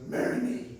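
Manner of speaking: lightly gruff mock proposal, loud; gruff, confident voice. Imitating friend on one knee proposing to sister, gruff confidence. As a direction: propose gruffly and sure of yourself. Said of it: "gruff, confident voice".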